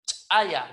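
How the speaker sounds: "Chaya" with a well-struck ejective CH; loud popped CH opening "Chaya"; explosive CH. Shown as a demonstration. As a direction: hit the CH of "Chaya" hard, then pause a hair. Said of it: "bien golpeado".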